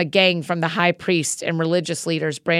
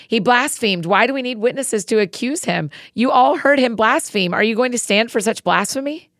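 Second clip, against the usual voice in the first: higher, louder outraged accusation; yelling in anger; 6 semitones higher, 4 dB louder than usual. A narrator's reading. Chief priest yelling at the council over blasphemy, outraged. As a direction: hurl the charge at the council.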